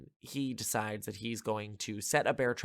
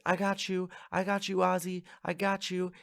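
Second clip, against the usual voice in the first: higher mock gloat of a bratty kid; 8 semitones higher than usual. Reviewer voicing the villain kid who traps Ozzy, gloating. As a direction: crow it like a smug kid. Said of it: "Gorman is like".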